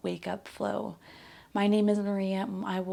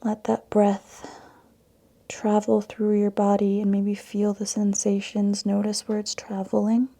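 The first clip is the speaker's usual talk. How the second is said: calm yoga meditation with long pauses; guided meditation; 5 dB louder than usual. Acted. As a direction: guide them into the breath, leaving space between phrases. Guides breath and intention setting.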